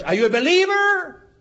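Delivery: 목소리를 확 높여 다그치듯. Retold or imitated. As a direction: pushes the question up high and hard. Pastor presses question again.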